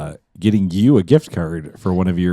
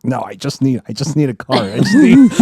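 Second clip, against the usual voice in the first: stifled laugh; 5 semitones higher, 4 dB louder than usual. Retold or imitated. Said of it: "trying not to laugh".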